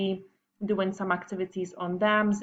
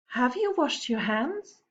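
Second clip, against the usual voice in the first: sweetly; 5 semitones higher than usual. Acted. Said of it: "she asked sweetly".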